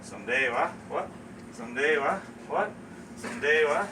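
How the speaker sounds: slurred Newfoundland "Someday, wa?" met by short rising "What?"; Newfoundland conversation loop. Shown as a demonstration. Local and baffled listener go round in circles, Newfoundland dialect. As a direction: repeat the Newfoundland question and puzzled reply. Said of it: "would have gone on like this".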